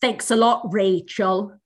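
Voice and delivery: low, drawn-out mock scolding; lightly voiced little girl. Little girl's video to her older sister, lightly imitated. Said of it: "And she says".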